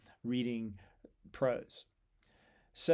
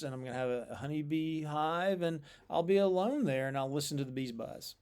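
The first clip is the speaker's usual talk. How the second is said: quick, offhand everyday telling; casual prose paraphrase; faster than usual. Shown as a demonstration. Teacher contrasting the poem with a casual prose version, quick and offhand. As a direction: rattle it off like ordinary chat. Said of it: "That's a prose translation of that verse".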